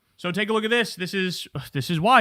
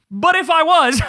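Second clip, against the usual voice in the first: laughing mockery; 9 semitones higher than usual. Real, not acted. Roasting a eugenics fan on camera, laughing through it. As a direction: crack up while you insult him.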